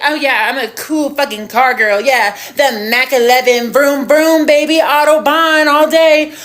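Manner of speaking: mock-cool bragging; overconfident boasting. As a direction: mimic yourself showing off as a car expert. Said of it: "I so confidently was like".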